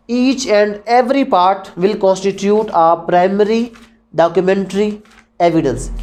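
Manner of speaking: very slow, even reading; slow dictation. Shown as a demonstration. Teacher dictating the rule slowly to students. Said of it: "teacher dictates rule slowly".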